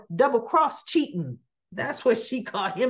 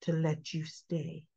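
menacing Selena; 4 semitones lower, 5 dB quieter than usual. Retold or imitated. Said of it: "She goes".

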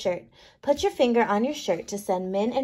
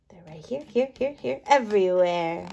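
whisper; 3 semitones lower than usual. Acted. Whispering microbes are hiding here.

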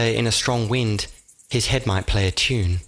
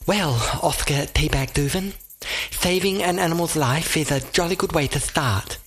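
lisping derby voice; 6 semitones higher than usual. Acted. Derby character voice, higher.

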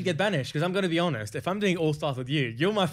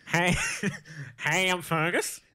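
put-on Kentucky accent; slower than usual. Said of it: "this time do a Kentucky accent".

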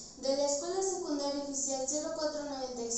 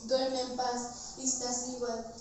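tender farewell; much slower than usual. Acted. Closing farewell to sleeping princess.

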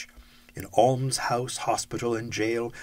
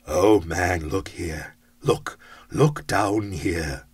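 exclaimed; 3 semitones lower, 4 dB louder, slower than usual. Acted. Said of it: "exclaimed the ghost".

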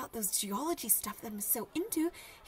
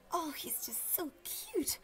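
dreamy whisper; 3 semitones higher, slower than usual. Acted. Swooning over crush.

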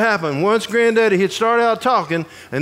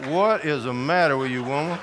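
quiet inner thought; 5 semitones lower, 6 dB quieter than usual. Retold or imitated. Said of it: "I'm looking at Chicken Woman thinking".

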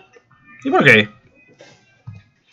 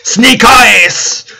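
higher, punchy devil's cry; loud exclamation; 10 semitones higher, 8 dB louder than usual. A narrator's reading. Devil slamming the casino floor, loud exclamation. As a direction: call it out like a triumphant storybook devil. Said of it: "louded the devil while slamming the floor".

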